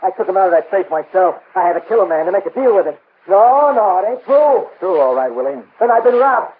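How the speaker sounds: high, loud, frantic cries that it can't be true; hysterical denial. Acted. Crook shouting at the detective that the jewels are real, hysterical. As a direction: panic rising as the loot turns out fake.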